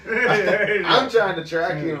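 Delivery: high, slow, through laughter; real laughing. Real, not acted. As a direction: struggle to get it out while laughing. Laughing at own hunting story.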